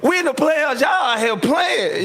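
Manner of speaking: heated sideline rant, slow at the end; retold heated yell. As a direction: player yelling at teammates, heated and laughing. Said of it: "I said".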